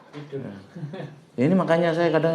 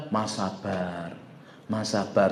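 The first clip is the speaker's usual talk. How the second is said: quoting people; 6 semitones lower, 9 dB quieter, slower than usual. Retold or imitated. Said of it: "Makanya orang bilang".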